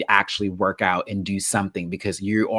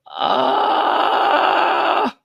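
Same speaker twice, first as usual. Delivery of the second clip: loud, high exasperated outburst; mock frustrated shout at the TV; exasperated yell; 6 semitones higher, 8 dB louder than usual. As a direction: yell at the screen in disbelief. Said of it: "And I'm like".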